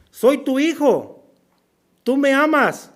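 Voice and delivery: put-on a small boy appealing to his mother's love; pleading child. Son kneeling before his mother, high slow childlike plea.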